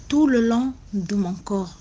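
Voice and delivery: "tout" leaned on in "tout le long de mon corps"; emphatic "tout", then ease off; stress on tout. Real, not acted. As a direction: put the weight on "tout". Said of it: "Je dis bien tout le long".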